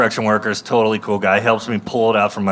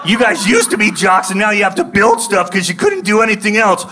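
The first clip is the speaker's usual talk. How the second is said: shrill furious screaming, far higher and louder; raging taunt; 12 semitones higher, 3 dB louder than usual. Retold or imitated. Comic taunting of idle construction workers from the car, screamed high with rage. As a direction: scream a challenge like you're itching for a fight. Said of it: "And I just go".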